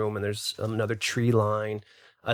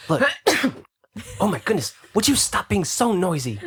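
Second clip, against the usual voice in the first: exasperated elf; 4 semitones higher than usual. Acted. Elf scolds noisy party.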